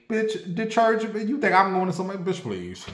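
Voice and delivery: high scoffing disbelief; incredulous scoff. Real, not acted. Mocking the church folks, incredulous scoff. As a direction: scoff at the idea, voice jumping up.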